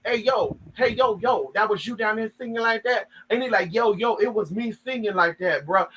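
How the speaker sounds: lightly voiced street-slang Dahmer; a hint of a casual 'yo, bro' cellmate; mild mock street voice; Dahmer as a black man. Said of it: "sounded like Jeffrey Dahmer was being a black man".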